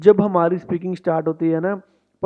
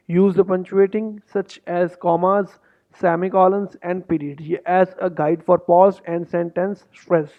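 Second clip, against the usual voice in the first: slow, deliberate read-through of the test rules; slow instruction reading; much slower than usual. Shown as a demonstration. Coach reading exam instructions to students, slow and deliberate.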